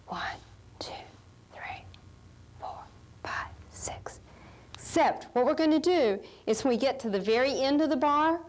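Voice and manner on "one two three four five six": whispered counting, one to six. Shown as a demonstration. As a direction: whisper each number softly. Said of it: "Can you whisper?".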